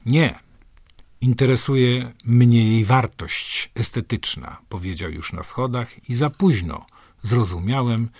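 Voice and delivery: slow, measured poetry recital; poem reading. Acted. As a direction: read the poem slowly, letting lines land. Reads poem aloud.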